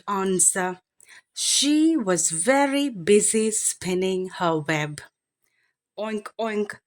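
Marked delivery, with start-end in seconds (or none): 6.0-6.8 softer grunting oink; a light piggy grunt. Acted. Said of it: "grunted the pig".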